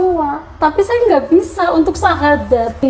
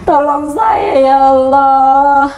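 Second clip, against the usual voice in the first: crying prayer; 3 semitones higher than usual. Retold or imitated. Mother reliving her prayer to God, slow and crying. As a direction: beg God for help through tears. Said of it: "Saya sering nangis".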